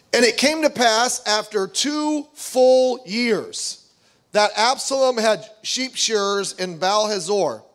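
slow, measured Bible reading; scripture reading. Acted. Preacher reading the Bible passage to the congregation, slow and solemn. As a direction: read the verse with weight.

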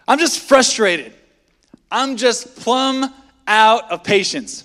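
slow, drawn-out put-upon excuse; a slow, weary mock excuse; mock exasperated excuse. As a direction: sigh it out like you've had enough. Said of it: "ways we excuse our anger".

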